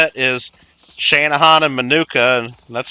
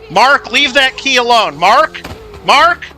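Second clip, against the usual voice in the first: playful telling-off, higher at first, easing down; mock mad scolding; 5 semitones higher, 3 dB louder than usual. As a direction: scold him like a naughty pet, half-serious. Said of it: "This is my mad voice".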